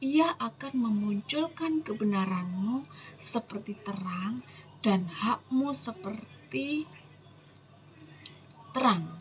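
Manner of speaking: slow, weighty verse reading with drawn-out words; solemn scripture reading. Acted. Preacher reading God's promise to the congregation, solemn scripture reading. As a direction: read the verse out deliberately.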